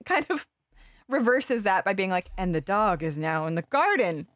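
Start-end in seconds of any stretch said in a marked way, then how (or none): 2.4-4.3 slow, matter-of-fact dog logic; slow dog thoughts voice. Retold or imitated. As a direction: voice the dog's confident mistake slowly. Dog's reasoning voiced.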